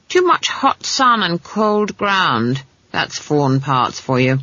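slow, lightly characterised granny; lightly voiced knowing old witch. Granny explains the girl's fever, slow and mildly disapproving. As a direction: draw it out like a knowing old woman.

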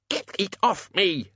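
high, slow panicked yell. Acted. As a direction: cry out to get the gnome off his head. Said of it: "the Dean yelled".

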